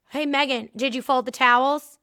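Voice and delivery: pointed, mock-innocent question with a rising end; passive-aggressive question. Boss quizzing his employee, passive-aggressive. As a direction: needle her with a sweet, loaded question. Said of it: "He was so freaking passive-aggressive".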